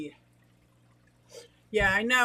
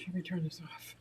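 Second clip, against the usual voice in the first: whispering; 3 semitones lower, 8 dB quieter than usual. Real, not acted. Aside while turning tap off.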